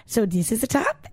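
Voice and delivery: mock-patient explaining, "top" rising like a question; a light take on the German woman pointing at each part; imitating the German host. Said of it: "and she's like".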